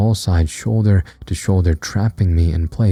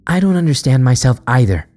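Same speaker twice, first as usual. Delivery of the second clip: voice cracking; 6 semitones higher than usual. A narrator's reading. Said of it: "Her voice cracked".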